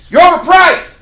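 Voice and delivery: loud, high, blunt declaration; bold blunt shout. Shown as a demonstration. Agent telling Kelby bluntly his price is too high, shouted. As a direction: hit them with the truth. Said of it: "the bold side".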